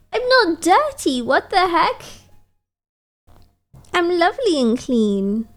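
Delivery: high, offended protest; indignant. Real, not acted. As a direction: squeak out the denial. Protests being asked to wash.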